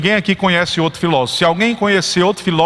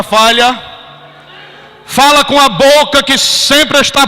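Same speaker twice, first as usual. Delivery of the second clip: loud, higher, slow climactic sermon; full-force preaching; 10 semitones higher, 5 dB louder, slower than usual. Acted. Preacher lifting the congregation to worship, loud and rising. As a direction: build the crowd to praise, slow and loud.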